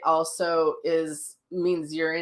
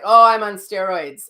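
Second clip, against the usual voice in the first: retold reply; 2 semitones higher, 9 dB louder than usual. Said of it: "And I was like".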